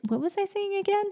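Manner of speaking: high, hammed-up forgetful mom; flustered mom brain. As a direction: play a scatterbrained mom who forgot her point. Mom brain losing her thought.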